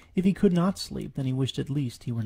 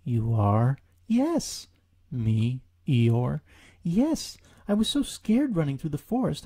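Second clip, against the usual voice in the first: character dialogue. Acted. Piglet and Eeyore meeting in the bog, voiced. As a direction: trade squeaky and mopey voices.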